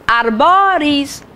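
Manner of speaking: "Arboris" said slowly as one stretched word; slow teaching delivery of "Arboris"; slow, for counting. Shown as a demonstration. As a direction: draw out "Arboris" so each syllable is clear. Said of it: "três sílabas".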